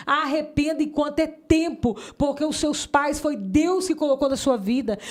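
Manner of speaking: put-on slow, urgent appeal to teens; preaching appeal.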